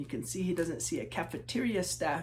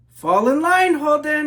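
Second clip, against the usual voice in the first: higher, louder sharp order; stern teacher call; 9 semitones higher, 15 dB louder than usual. Acted. Teacher scolding the daydreaming Holden, loud stern call. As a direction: snap the boy back into line.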